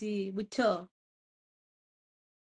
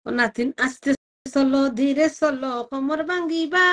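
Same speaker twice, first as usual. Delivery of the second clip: loud call; 7 dB louder than usual. Retold or imitated. Calling to a grandchild.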